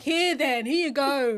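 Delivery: loud, fed-up handing over; exasperated. Retold or imitated. Mother picking up her crying baby, loud and exasperated. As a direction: shove it at him, done with it. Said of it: "I'm picking him up like".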